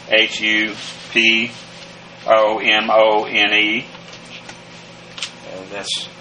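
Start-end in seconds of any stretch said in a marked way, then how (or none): 0.1-3.9 letters spelled slowly one at a time; slow spelling. Shown as a demonstration. Teacher spelling hupomone slowly for the class. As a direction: spell out each letter deliberately.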